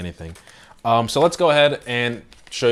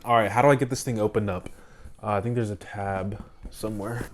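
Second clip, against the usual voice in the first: out of breath; 4 dB quieter than usual. Real, not acted. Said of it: "I'm out of breath".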